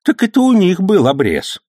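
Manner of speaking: high, loud faux-naive old man; feigned innocence. A narrator's reading. Old man playing innocent before the policeman, faux-naive. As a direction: play dumb, all innocence. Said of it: "скорчив наивное выражение лица".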